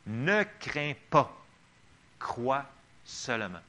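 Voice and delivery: a touch of sternness, slow; slow and firm, a mild stern command; stern Jesus. Acted. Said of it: "d'une voix assez sévère".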